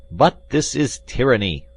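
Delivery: loud, high outraged protest; indignant cry. A narrator's reading. Exasperated English gentleman protests at the cellar, indignant cry. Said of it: "cried one of them".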